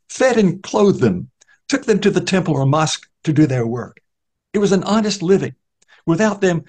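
high, self-justifying account; the beggar justifies kidnapping children to Newman; defensive blind beggar. Acted. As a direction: defend the indefensible, lightly voiced. Beggar justifying his crime.

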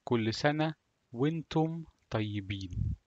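كل سنة وأنتم طيبين said in Egyptian Arabic. Shown as a demonstration. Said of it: "in Egypt, we say".

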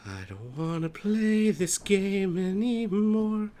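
slow whine. Real, not acted. Whining about the scary game.

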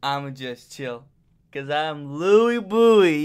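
slow, cocky voicing of the cat; cat's voice. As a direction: make the cat sound smug. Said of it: "He's like".

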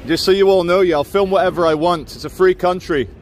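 worked-up public protest. Real, not acted. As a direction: announce it to everyone, riled up. Defiant after being confronted.

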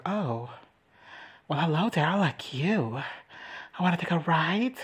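mock-sultry flirting; sultry dragon. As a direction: play a dragon lightly flirting. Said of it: "It's so sultry".

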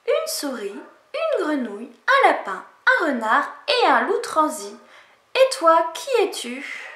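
lightly voiced small creatures; little animals answering the bear. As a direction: animals telling the bear who is inside.

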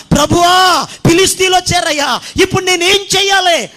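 Samson calling out in alarm; panicked cry. Acted. Samson cries out to God.

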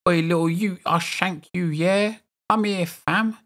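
high-pitched mock South London roadman threat. Streamer plays up his South London roots in a mock roadman accent. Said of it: "Bit of South London, innit, mate?".

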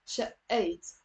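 شقيت with a pressed, doubled consonant; pressed shadda. Shown as a demonstration. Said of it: "you're pressing on it".

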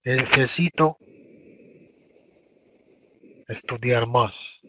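very slow repeated phrase; slow teacher repetition; slow dictation. Shown as a demonstration. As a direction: say it slowly for the class. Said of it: "repeated model phrase".

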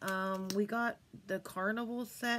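a lightly put-on bored clerk voice; clueless store clerk. CVS clerk brushing off her blush request, mock offhand voice. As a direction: play the clerk who has no idea, offhand. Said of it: "C V S is like".

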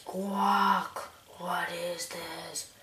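slow whispery giant voice; a hint of a menacing giant; booming frost giant. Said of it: "I need a voice for that guy".

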